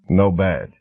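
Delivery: a hint of a rumbling big man; cement mixer voice. A narrator's reading. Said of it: "a voice like a cement mixer turning over".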